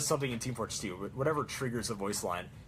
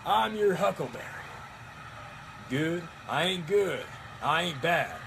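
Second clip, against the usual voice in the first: higher, slow cowboy drawl; McCree cowboy drawl; 4 semitones higher than usual. Retold or imitated. Cosplayer quoting McCree, slow cowboy drawl. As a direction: drawl it like a gunslinger. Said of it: "McCree alone".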